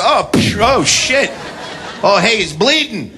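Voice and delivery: hammed-up innocent surprise; mock fake apology. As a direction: pretend it was an accident. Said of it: "I was like".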